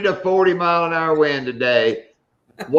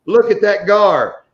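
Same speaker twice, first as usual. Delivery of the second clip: retold exclamation; 4 semitones higher, 4 dB louder, slower than usual. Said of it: "and I went".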